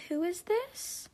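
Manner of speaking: high, slow feigned cluelessness; mocking imitation. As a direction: drag it upward into a mock-innocent question. Mimicking friend's text feigning ignorance.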